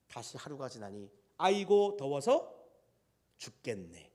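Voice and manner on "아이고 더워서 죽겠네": acted grumbling. Preacher voicing the next day's heat, mock weary grumble. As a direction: grumble about the heat, fading away. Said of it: "마음이 바뀌고 말았습니다".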